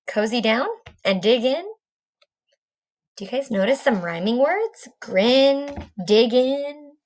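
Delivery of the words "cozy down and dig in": lively storybook narration; reading to children. A narrator's reading. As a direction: read it like a bedtime picture book. Reading picture book aloud.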